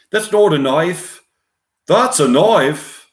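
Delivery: put-on Australian accent, high and emphatic; Paul Hogan. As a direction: show off in a broad Australian accent. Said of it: "Paul Hogan with Australian accent".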